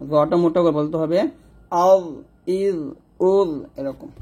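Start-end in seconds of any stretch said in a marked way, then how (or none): 1.9-3.5 light, thin ক sound in আল ইল উল; thin kaf. Shown as a demonstration. Teacher showing the thin kaf sound. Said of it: "কাফটা পাতলা হবে".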